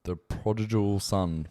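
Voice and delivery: "The prodigal son" said slowly, each syllable clear; careful pronunciation. Shown as a demonstration. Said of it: "I wanna get you to pronounce this".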